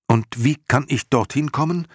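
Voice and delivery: put-on high, loud boyish question; Atreju, urgent. A narrator's reading. Boy asking Morla the way there, urgent high voice.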